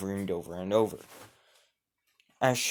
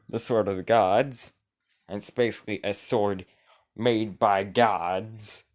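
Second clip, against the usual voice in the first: ordinary delivery, nothing marked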